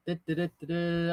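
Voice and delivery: soft little "du-du-du" patter; idle vocal doodle while searching; absent-minded sing-song filler. Real, not acted. Streamer scanning chat for questions, idle sing-song filler.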